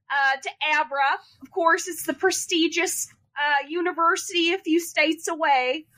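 lightly put-on Minnesotan accent. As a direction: introduce yourself with a hint of Minnesotan accent. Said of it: "I love Minnesota accent".

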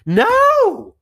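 loud, high string of no; emphatic denial. Retold or imitated. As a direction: protest hard, rising to the top. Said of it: "I was like".

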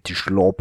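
"slop" said as "shlop"; S pronounced sh. Retold or imitated. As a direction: hush the S of "slop" into "sh". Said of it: "he pronounces the ash".

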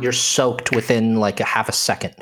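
slow, drawn-out storm description; scene-setting narration. Acted. Game master to players stepping into the storm, atmospheric narration. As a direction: paint the storm word by word.

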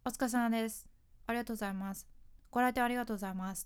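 flat, routine greetings rattled off; rote monotone. Shown as a demonstration. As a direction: say them on autopilot, meaning gone. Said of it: "棒読みになりがち".

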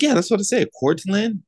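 imitating a supervisor who won't hear the correction; insistent supervisor. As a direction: play her as sure she said it right. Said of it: "She's like".

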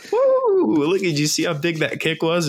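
giddy high-pitched squeal; kid on christmas morning. Retold or imitated. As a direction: gush like an overexcited kid. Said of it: "He's like".

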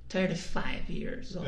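slow, low American English; American accent. Acted. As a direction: drawl it slowly like an American. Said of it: "Quantos anos".

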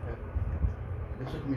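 sussurro baixinho, quase sem voz; sussurrando. Pretend. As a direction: fala bem baixo, em segredo. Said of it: "Eu quero continuar em silêncio". (sussurrando em silêncio)

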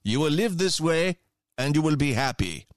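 a hint of a commanding Soviet functionary; Soviet apparatchik voice. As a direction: lightly play a cold party bureaucrat issuing orders. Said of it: "we must cue the Soviet apparatchik voice".

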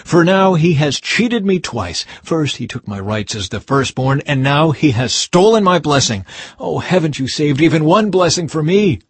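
loud aggrieved outcry; bitter exclaiming. Acted. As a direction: cry out at the cheating brother. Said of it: "Esau exclaimed".

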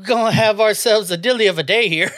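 jokey British accent attempt; English accent. Shown as a demonstration. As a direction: play up a bad English accent. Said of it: "hit me with your best English accent".

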